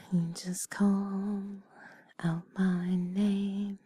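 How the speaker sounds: slow whispered lyrics. Acted. Whispers song lyrics slowly.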